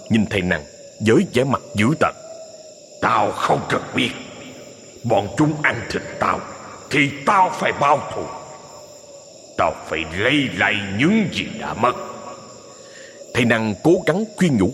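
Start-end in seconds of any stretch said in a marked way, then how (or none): 3.0-12.0 growling demon. Acted. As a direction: snarl back, refusing to yield. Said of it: "Quý cẩu gầm gừ".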